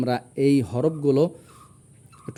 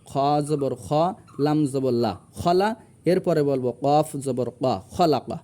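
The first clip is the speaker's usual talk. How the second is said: joined two by two. Shown as a demonstration. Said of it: "দুইটা হরফ উচ্চারণ আগে মিলাবো".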